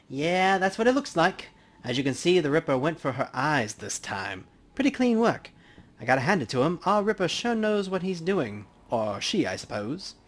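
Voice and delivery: easygoing professional banter at a crime scene; lightly voiced coroner. Player holds Dresden's voice.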